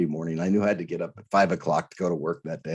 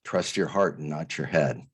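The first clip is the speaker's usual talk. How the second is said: low, measured and faintly patronizing; condescending voice; 6 semitones lower, 3 dB quieter than usual. Retold or imitated. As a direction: imitate a mildly condescending voice, pitched down. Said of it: "almost a condescending voice that said".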